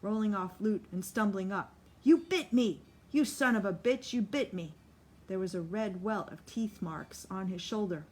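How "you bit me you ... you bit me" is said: loud shocked yell, fading at the end; outraged yell. Acted. Solly yelling at Lute about the bite. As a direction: roar the outrage, then sputter.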